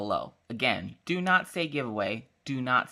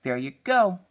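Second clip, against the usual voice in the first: raised pitch, triumphant reveal; mock presenting; 6 semitones higher than usual. Mom presenting ground beef as McDonald's, mock triumphant. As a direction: present it with a playful flourish.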